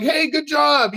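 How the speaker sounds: friendly encouragement. Retold or imitated. Acts out women cheering him on.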